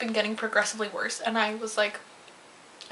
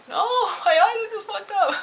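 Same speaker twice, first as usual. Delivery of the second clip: higher, louder, laughing through it; laughing denial; 10 semitones higher, 4 dB louder than usual. Retold or imitated. She tells coworkers she is not on drugs, laughing. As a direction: laugh off the accusation. Answering psychedelics question.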